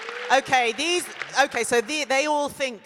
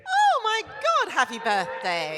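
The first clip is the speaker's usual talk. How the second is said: excited birthday gush; 8 semitones higher, 5 dB louder than usual. Real, not acted. Fan says it's her birthday.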